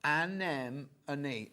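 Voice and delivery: Anemone said very slowly as a-NEM-uh-nee; her own anemone. Shown as a demonstration. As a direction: drag out Anemone syllable by syllable. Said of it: "That's how I say it".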